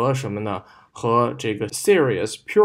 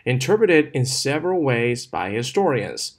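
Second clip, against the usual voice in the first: "ways" and "historians" stressed, "by" light; slow model reading, "ways" and "historians" punched; 2 semitones higher than usual. Shown as a demonstration. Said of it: "这个ways跟historians都可以重读一下".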